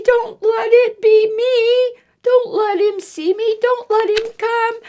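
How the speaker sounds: put-on high, pleading child's whimper; whimpering plea. Eddie hiding in the basket, whimpering. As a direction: beg under your breath. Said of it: "whimpered Eddie".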